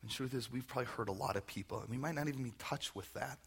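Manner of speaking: unhurried, reverent pastoral prayer. Real, not acted. Pastor leads standing congregation in prayer for forgiveness, reverent.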